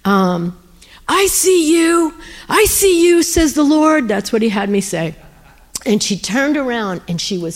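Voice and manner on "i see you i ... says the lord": high, drawn-out call across a distance; retold yell. Woman yelling after a runaway in the parking lot, high proclaiming call. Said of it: "I yelled".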